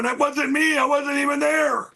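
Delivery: mock panicked shout of innocence; pretend protest. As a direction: plead your innocence from a jail cell. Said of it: "I'd be in jail going".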